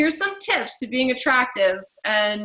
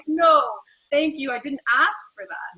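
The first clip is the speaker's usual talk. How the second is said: mock refusal; 4 semitones higher than usual. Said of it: "you're like".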